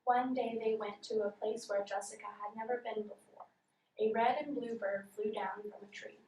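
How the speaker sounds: reads the story with no expression; deadpan, unexpressive reading. Shown as a demonstration. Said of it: "I was reading with no expression".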